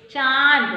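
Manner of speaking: चांद with a loud, nasalised long vowel. Shown as a demonstration. Teacher has pupils say an example, nasal चांद. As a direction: stretch चांद out through nose and mouth. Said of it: "मतलब नाक से भी बोलेंगे".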